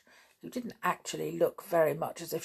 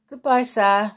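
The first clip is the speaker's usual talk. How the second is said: politely; 5 semitones higher, 9 dB louder than usual. A narrator's reading. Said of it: "said Aunt Julian politely".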